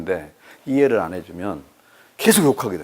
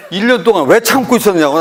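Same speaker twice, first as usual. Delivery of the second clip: indignant retort; 6 semitones higher, 7 dB louder than usual. Retold or imitated. Retorting to the colleague.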